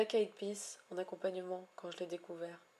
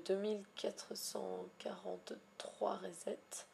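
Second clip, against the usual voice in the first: whisper; 6 dB quieter, slower than usual. Real, not acted. Whispering the reset count.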